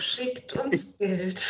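sehr langsam und leise gesprochen; langsam gesagt. Pretend. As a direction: dehnt jedes Wort. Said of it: "Ihr solltet noch das mit „Schickt uns Geld“ sagen". (langsam und gedehnt)

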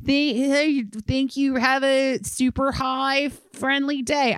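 upbeat delivery-guy catchphrase; chirpy customer-service voice; cheery catchphrase. Retold or imitated. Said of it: "say a catchphrase and be like".

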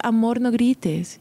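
slow, patient gentle correction; calm mother. Retold or imitated. Mother patiently asks her yelling child to stop, slow and gentle. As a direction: soothe the child without raising your voice.

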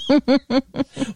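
Michigander "ope". Shown as a demonstration. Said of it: "I say that word".

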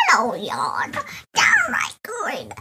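put-on low, shouted old lady voice; crackly granny holler. Shown as a demonstration. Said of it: "That's an old lady voice".

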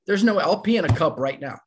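insistent, disbelieving plea of innocence; acting out a panicked denial; frantic. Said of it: "I'm going from frantic".

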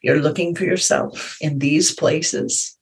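slow, lightly voiced Indian accent; slight Indian accent. Playful teacher finding her in a dream, slight Indian accent. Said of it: "said in her slight Indian accent".

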